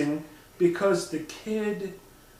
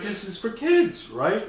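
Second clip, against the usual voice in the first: mock disbelief; 5 semitones higher, slower than usual. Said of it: "I'm like".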